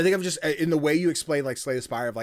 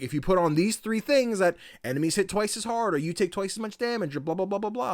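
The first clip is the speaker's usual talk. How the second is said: mock game rules voice; 8 semitones higher than usual. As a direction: rattle off the rules in a raised voice. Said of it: "It's like".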